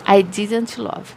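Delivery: I didn't love said very slowly and clearly; slow model phrase. Shown as a demonstration. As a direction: spell it out slowly for learners. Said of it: "Eu não amei".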